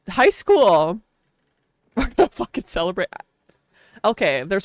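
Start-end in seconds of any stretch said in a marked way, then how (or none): 1.5-3.1 laughing. Real, not acted. Laughing excited plan.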